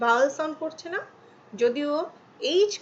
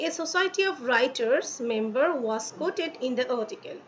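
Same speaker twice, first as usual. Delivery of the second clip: slow example read; much slower than usual. Shown as a demonstration. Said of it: "এখানে example দেখো".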